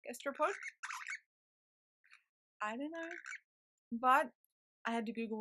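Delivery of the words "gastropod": "Gastropod" pitched up as a question; unsure pronunciation. Real, not acted. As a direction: try out "Gastropod" questioningly, higher. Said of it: "I don't know how to pronounce that".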